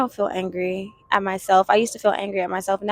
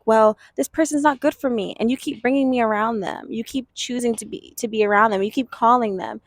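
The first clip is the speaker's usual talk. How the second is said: hint of a whiny angry child; mock angry child; 3 semitones higher than usual. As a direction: complain to the parent like a hurt kid, understated. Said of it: "the child's angry at the parent".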